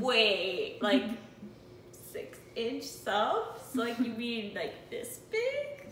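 loud, slow and incredulous; loud disbelief. Retold or imitated. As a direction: shout it in total disbelief. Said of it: "And then we're like".

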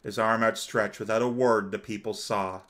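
measured, dramatic storytelling read; story narration. A narrator's reading. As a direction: narrate it gravely, phrase by phrase. Reads story narration aloud.

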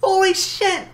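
hyped up. Real, not acted. Reacting to Smash reveal.

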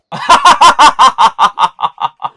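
rhythmic laughing burst; loud chopped laugh; loud laughter. Real, not acted. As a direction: crack up at yourself. Laughing at himself.

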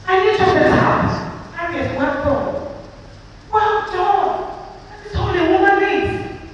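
loud, impassioned plea with pitch often lifted; very emotional. Real, not acted. Speaker pleading for husbands' appreciation, very emotional. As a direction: cry out from personal hurt on behalf of wives. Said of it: "I become very emotional when I talk about this".

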